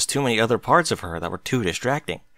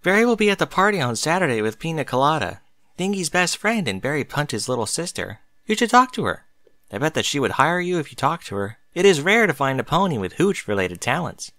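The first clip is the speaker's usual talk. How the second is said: lightly voiced Derpy, eager; 3 semitones higher than usual. Derpy urging Bucky to see Berry, lightly raised and eager. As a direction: cheerfully talk him into meeting Berry.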